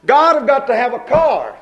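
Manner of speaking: hammed-up insistent prayer; mock begging. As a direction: demand the car from God. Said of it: "I've done this".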